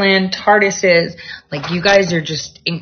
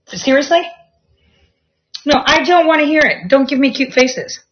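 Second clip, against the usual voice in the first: much higher, mock-stern refusal to the cat; exasperated pet scolding; 7 semitones higher than usual. Real, not acted. Pushing her cat away, mock-stern higher voice. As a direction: fend off the cat's cuddles, high and mock-stern.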